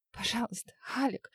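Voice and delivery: breathy whispered plea, barely voiced; tearful whisper. A narrator's reading. Wife pleading with her husband for her life, whispered. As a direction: beg him in a whisper, near tears. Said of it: "Она всхлипнула".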